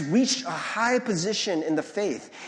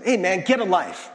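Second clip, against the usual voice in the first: louder, scornful "Hey, man, get a life" with a punched "get"; mocking put-down; 5 dB louder than usual. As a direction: sneer it like a dismissive jab. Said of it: "It's usually said in this tone".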